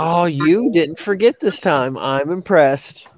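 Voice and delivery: slow, drawn-out sarcastic praise. Acted. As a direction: tease with mock admiration. Teasing the host.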